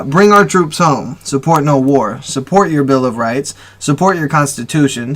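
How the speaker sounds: impassioned read-aloud of a manifesto; reading with feeling. Shown as a demonstration. Host reading a listener's post for the people, with feeling. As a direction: read it out with emotion, leaning on key words. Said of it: "I'll read it with feeling and emotion".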